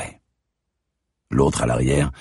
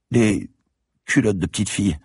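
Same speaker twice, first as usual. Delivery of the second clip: put-on a child savouring her threat; taunting little girl; 9 semitones higher than usual. A narrator's reading. Girl blackmails Franck, high sly child voice.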